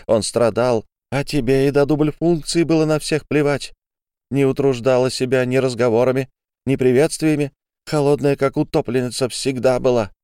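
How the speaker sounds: furious tirade. Acted. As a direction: lash out with every word. Olga's tirade at Ariadne.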